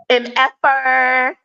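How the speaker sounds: mock-polite, slow M F er; spelled out slowly. Shown as a demonstration. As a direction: say M F er letter by letter, slow and deliberate. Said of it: "I'm trying to clean it up".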